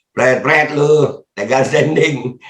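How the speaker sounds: scornful jeer. Real, not acted.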